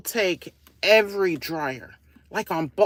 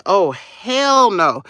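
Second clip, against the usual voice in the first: loud, slow, drawn-out imitation of outraged customers; hammed-up indignant refusal, louder and higher; emphatic mock outrage; 4 semitones higher, 6 dB louder, much slower than usual. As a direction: imitate their refusal big, stretching HELL. Voices the waiting customers' reaction, bigger.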